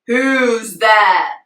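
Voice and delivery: loud waking dragon; dragon shout. Acted. Father dragon hears the bells and calls out, loud. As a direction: bark into the dark.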